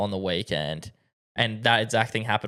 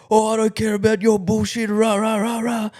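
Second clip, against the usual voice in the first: high, louder blustering imitation; mocking homeowner rant; 10 semitones higher, 4 dB louder than usual. Window cleaner mimicking the dismissive homeowner, mocking rant. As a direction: mimic his ranting, trailing into nonsense rah-rahs.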